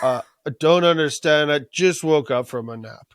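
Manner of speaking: lightly voiced sleepy dragon; mumbling excuse of a just-woken dragon, played for laughs; groggy dragon. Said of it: "He's like".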